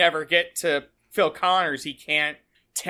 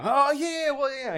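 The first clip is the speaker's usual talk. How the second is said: dismissive brush-off; 10 semitones higher than usual. Retold or imitated. Mocking Phil's dismissive brush-off.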